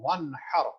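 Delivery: ون ہر with the noon sounded fully, no nasal merge; clear noon. Shown as a demonstration. Teacher demonstrating izhar to students, clear noon. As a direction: say ون ہر with a crisp separate noon. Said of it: "clearly ادا کر رہا ہوں".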